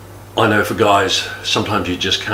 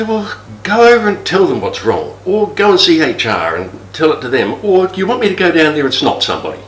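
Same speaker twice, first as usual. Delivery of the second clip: higher, eager fix-it husband voice; 6 semitones higher than usual. Retold or imitated. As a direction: jump in to solve everything. Husband offering to fix things.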